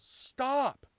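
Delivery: high, loud warning cry; yell. Acted. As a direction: yell it out in sudden alarm. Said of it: "Jasmine yells".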